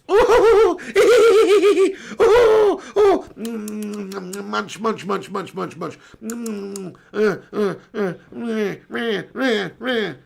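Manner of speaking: high whooping, then munching and bleating noises; comic string of oohs, munches and mehs; Missus P. Acted. Streamer mocks Missus P on viewer's request, silly impression. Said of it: "Do a Missus P impression".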